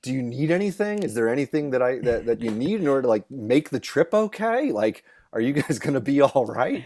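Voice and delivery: concerned. Retold or imitated. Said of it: "he seemed concerned for us".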